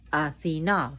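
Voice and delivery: Athena said ah-thee-NAH, stress on the last syllable; Athena the Greek way, ah-thee-NAH; Greek pronunciation of the name. Shown as a demonstration. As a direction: land Athena on a full, open final "nah". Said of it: "Why do I say the name Athena".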